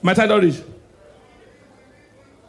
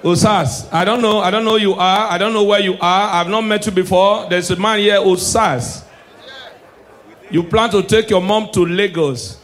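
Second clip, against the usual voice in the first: a hint of a preacher's prophecy; lightly voiced prophet calling out Osas; mock prophet voice. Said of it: "Why the Lord tell me".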